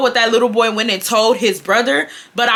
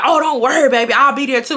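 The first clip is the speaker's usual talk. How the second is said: imitating a cocky retort, pitched up at first; sassy clapback; 4 semitones higher than usual. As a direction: start high, mimic her talking back. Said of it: "she's popping her shit back".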